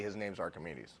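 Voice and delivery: "Archimedes" said as ar-kuh-MEE-deez, low and soft; corrected pronunciation. Retold or imitated. Mathematician corrects the speaker, "Archimedes" softly as ar-kuh-MEE-deez. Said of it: "I was corrected by a mathematician".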